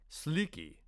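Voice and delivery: soft, coaxing call of the name; gentle prompting. Acted. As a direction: say his name gently, like a patient mentor. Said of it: "he prompted gently".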